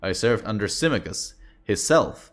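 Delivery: Scottish veteran boasting of past service; Scottish accent. Acted. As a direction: loose Scottish brogue, half-held. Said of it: "trying to do some Scottish accent".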